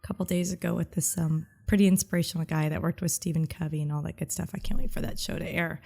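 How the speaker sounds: hoarse voice from a cold; raspy head cold. Real, not acted. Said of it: "head coldy, raspy voice".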